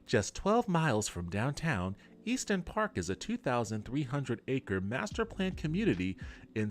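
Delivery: realtor voice. Pretend. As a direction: sell the neighborhood like a gushing agent. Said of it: "Did you not like my realtor voice?".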